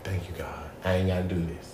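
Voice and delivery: 1 relieved under breath. Retold or imitated. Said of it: "I was like".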